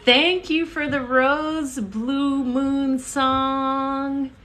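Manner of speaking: high, slow sing-song thanks; excited. Real, not acted. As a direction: stretch it out brightly. Live stream thanks, sung out.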